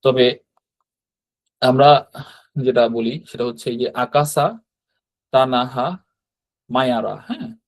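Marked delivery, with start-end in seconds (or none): 3.9-7.2 আকাসা, তানাহা, মায়ারা with pauses between; three-part grouping. Shown as a demonstration. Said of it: "তিন ভাগে হচ্ছে syllable করে".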